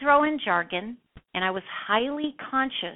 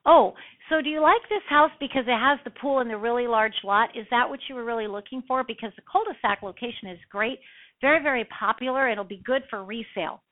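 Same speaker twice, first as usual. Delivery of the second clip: rushed, wordy sales talk; 3 semitones higher, faster than usual. Shown as a demonstration. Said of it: "if I didn't match their speech pattern".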